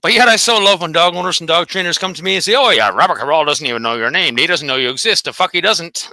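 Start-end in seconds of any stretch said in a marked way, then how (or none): 2.5-5.2 lower, dismissive put-on voice; a hint of a know-it-all dog owner, said low; mocking quote. Vlogger mocks dog owners who tell him he's unknown, in a low scoffing voice.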